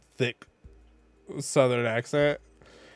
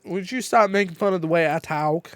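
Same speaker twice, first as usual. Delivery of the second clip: louder mock-indignant Southern mom; mom's Southern accent; 5 semitones higher, 3 dB louder than usual. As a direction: imitate a Southern-accented complaint. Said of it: "it was a really thick Southern accent".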